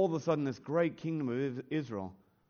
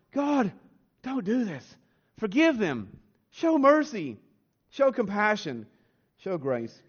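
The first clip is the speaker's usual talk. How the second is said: higher, urgent pleading cry, falling off on the last line; pleading Amos; 3 semitones higher, slower than usual. Retold or imitated. Amos crying out to God for the people, pleading. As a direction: beg God for mercy, rising in pitch. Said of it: "Amos each time cries out to God".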